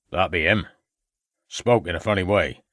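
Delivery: lightly voiced rustic old man; a hint of an old country farmer. A narrator's reading.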